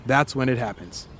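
low, measured storyteller; scene-setting narration. A narrator's reading. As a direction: ease the listener into the scene. Sets a second-person scene.

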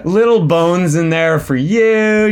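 giggly delight breaking into the words; laughing. Real, not acted. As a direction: talk through a laugh. Amused by a listener's review.

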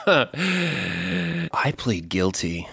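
slow, soft mock sob; mock tearful plea. Tearful guilty plea in mock trial.

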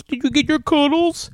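put-on high, sing-song kids' TV host; children's show voice. Parent to child at bedtime, high sing-song. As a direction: coo it like a children's TV presenter. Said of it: "you talk like, like you ha-, have a children's show".

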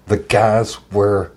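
slow, dragged-out imitation of a singer's rant; a half-hearted impression of a grumpy star; mock angry singer. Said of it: "he's yelling that the guys wear shirts".

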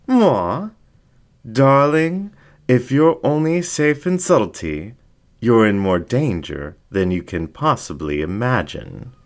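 high, camp, theatrical purr; a showman fox playing scandalised diva; flamboyant fox. Fox teasing the dingo in a high camp voice.

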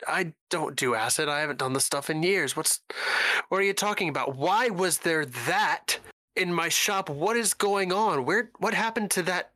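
high-pitched, stammering disbelief; shaken, upset. Acted. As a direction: play a rattled shopkeeper demanding answers. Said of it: "shaken, uh, clearly upset".

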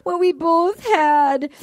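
slow, high mock-weepy quote; mock tearful. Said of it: "She starts crying".

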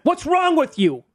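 high, drawn-out indignant yell; hammed-up slow, high scolding; mock outrage. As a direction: berate someone like a sore loser. Voicing irate bettor in brawl.

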